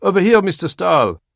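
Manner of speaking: high, loud call from the crowd. Acted. Photographer calling Stahl to look his way. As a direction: shout to catch his attention. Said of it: "A voice called out".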